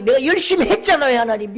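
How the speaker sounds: high, shouted plea; loud, impassioned insistence; anguished protest to God. Acted. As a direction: cry out your grievance to God. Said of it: "하나님 가슴을 치는 거예요".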